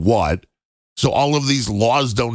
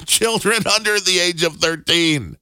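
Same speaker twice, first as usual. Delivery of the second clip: laughing; 6 semitones higher than usual. Real, not acted. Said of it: "I'm laughing so hard".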